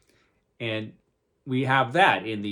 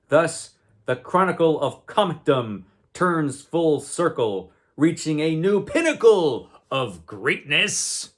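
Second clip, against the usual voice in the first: slow, lofty announcer read; grand comic narrator; 4 semitones higher than usual. Shown as a demonstration. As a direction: boom it out like an old comic caption. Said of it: "So this was a new pinnacle".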